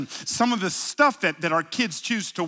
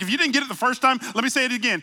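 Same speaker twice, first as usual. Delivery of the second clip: louder, quicker, higher emphatic aside; playful emphatic repeat; mock insistent narrator; 5 semitones higher, 3 dB louder, much faster than usual. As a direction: press it home like a repeating narrator. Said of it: "the narrator's like".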